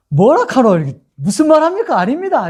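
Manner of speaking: high, sing-song Gyeongsang protest; Gyeongsang dialect. Shown as a demonstration. Disciple denying to a servant girl, Gyeongsang dialect. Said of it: "제가 이제 경상도 사투리를 쓰면".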